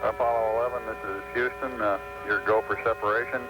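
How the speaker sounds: crackly mission radio; over a radio link; radio transmission. Real, not acted. Mission control radio loops.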